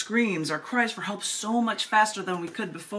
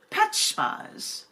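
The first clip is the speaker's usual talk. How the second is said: "Pet spas" whispered much higher; 12 semitones higher than usual. Pretend. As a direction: squeak out "Pet spas" in a high hush. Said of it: "try to do this in another voice".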